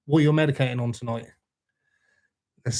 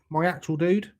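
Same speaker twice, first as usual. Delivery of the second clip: ordinary talk, nothing marked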